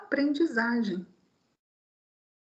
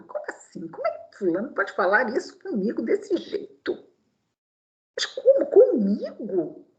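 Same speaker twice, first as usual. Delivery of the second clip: mock offended disbelief; 3 semitones lower than usual. Voicing offended pride.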